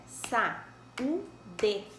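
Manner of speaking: "Saúde" split into sa-ú-de; "Saúde" said in three clear syllables; syllables split apart. Shown as a demonstration. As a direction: open the mouth three times on "Saúde". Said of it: "Abrimos a boca três vezes".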